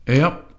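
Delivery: "Yep" both parts pronounced distinctly, P added; a clear "yep" of agreement. Shown as a demonstration. Demonstrating agreeing "yep" to listeners. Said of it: "Each of the two syllables pronounced distinctly".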